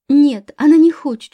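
ordinary delivery

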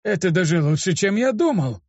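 put-on old man marvelling in a hoarse voice. A narrator's reading. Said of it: "хрипло сказал он". (хрипло, по-стариковски)

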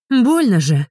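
indignant cry. A narrator's reading. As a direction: yell at him that it hurts. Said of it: "воскликнула возмущённо".

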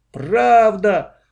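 a loud unanimous shout; chorus shout. A narrator's reading. The whole class agrees with Ira, loud chorus. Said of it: "хором и единодушно подтвердил весь класс".

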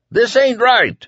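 high, loud desperate yell. A narrator's reading. Whitney yelling at the crowd in protest. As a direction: yell it in panic. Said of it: "Whitney yelled".

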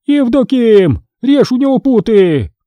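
high, loud, urgent command; sudden shout. A narrator's reading. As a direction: shout the order at once. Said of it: "Паучиха сразу закричала". (резко и громко кричит)

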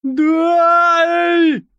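high, strained shout in a different voice; hoarse tramp shout. Acted. Tramp grabbing the bike, shouting. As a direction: bark it like a crazed tramp.

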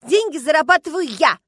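high, loud indignant cry; angry retort. Acted. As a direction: snap it out angrily. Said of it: "сердито сказала Люська".

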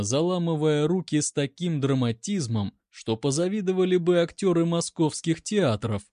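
ordinary delivery, nothing marked

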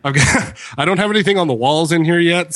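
bare walls, reverby sound; room echo. Real, not acted. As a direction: voice bouncing off empty walls. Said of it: "it's a little reverby".

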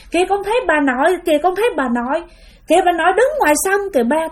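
put-on toddler voice. Small child telling father grandma's there.

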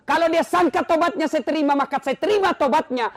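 loud, high-pitched sermon at full force; fiery preaching. Acted. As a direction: preach it to the whole hall.

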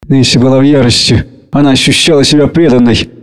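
usual speaking voice

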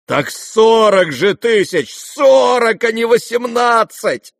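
loud, high shout over the price. A narrator's reading. Rogozhin shouting his bid at the gathering. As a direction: bellow the number out. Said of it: "закричал Рогожин".

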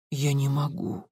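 soft, breathy whisper. Acted. Semyon answering Nikita, whispered. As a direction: whisper it, defeated. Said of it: "прошептал он".

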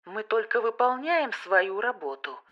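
тихо, чеканя слова; отчеканить каждое слово; отчеканил. A narrator's reading. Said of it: "Сменив тон, он отчеканил". (чеканно)

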